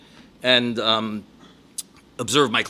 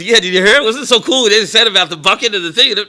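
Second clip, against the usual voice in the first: put-on excited kid; 5 semitones higher, 5 dB louder than usual. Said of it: "He looks and goes".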